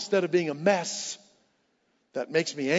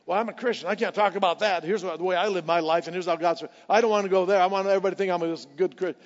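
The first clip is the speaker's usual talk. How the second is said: mock Christian excuse; 3 semitones higher, 4 dB louder, faster than usual. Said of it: "But we miss it".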